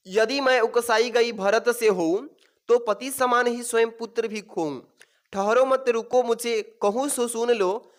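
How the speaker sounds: slow, measured verse reading; deliberate classroom poem reading; poem recitation. Acted. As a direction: recite the verse line by line, drawing it out. Reads verse aloud from the passage.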